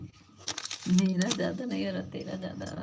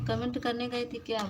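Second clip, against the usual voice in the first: calling out; 5 semitones higher, 4 dB louder than usual. Real, not acted. Calling out to a viewer.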